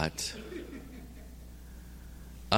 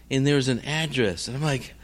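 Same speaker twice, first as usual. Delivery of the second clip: ordinary talk, nothing marked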